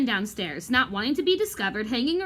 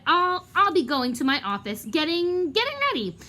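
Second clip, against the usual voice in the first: trembling stammer; 6 semitones higher than usual. Acted. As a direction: voice climbs much higher at the end. Lockhart trembling, trapped.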